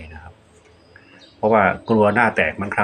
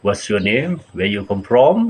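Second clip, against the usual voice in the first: English phrases demo; much slower than usual. Shown as a demonstration. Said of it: "ภาษาที่สามก็คือภาษาอังกฤษ".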